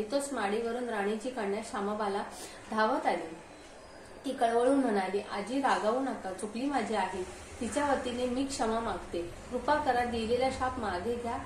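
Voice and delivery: lightly sing-song vrat katha narration; understated storyteller's recitation of a vrat katha; devotional story reading. Acted. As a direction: read the old folk tale aloud, line by line. Reads a vrat story aloud.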